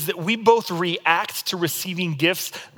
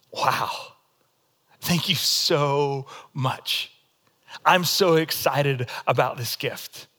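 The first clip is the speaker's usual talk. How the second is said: polite understated thanks; 4 semitones lower, slower than usual. Retold or imitated. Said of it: "I look at it and I go".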